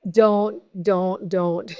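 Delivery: soft, laughing "don't, don't"; laughing protest. Real, not acted. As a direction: wave it off through a laugh.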